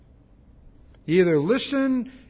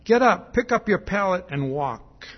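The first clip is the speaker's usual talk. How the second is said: commanding; 4 dB louder than usual. Retold or imitated. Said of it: "he commands this guy".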